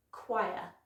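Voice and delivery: CHOIR as an isolated, careful "kwy-uh"; model pronunciation. Shown as a demonstration. Teacher has learners repeat, careful kwy-uh. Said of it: "try that one after me".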